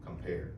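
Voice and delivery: "Compare" weighted on its second syllable, "pare"; stress on second syllable. Shown as a demonstration. Poet repeats word so audience hears the stress, "Compare" stressed on "pare". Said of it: "pair is the stressed syllable".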